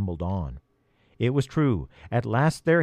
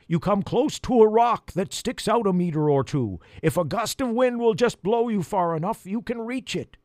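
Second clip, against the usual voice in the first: high crow voice yelling over wind; 9 semitones higher than usual. Acted. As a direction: call out the plan over the storm. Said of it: "he yelled".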